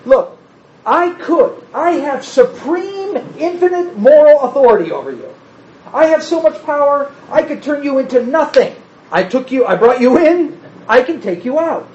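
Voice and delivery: flex supreme power over them; a pretend overbearing God threatening his people; mock domineering God. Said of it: "that's not what he says here".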